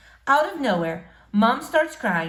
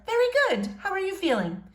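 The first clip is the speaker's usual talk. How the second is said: higher, kindly teacher voice; 12 semitones higher than usual. Acted. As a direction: speak up like a caring teacher.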